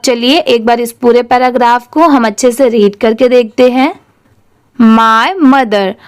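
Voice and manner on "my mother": very slow, word by word for repeating; slow read-aloud. Shown as a demonstration. Teacher reading for the class to repeat, very slow. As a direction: read it out slowly so pupils can echo. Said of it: "मेरे बाद आप उसे ज़रूर repeat करिए".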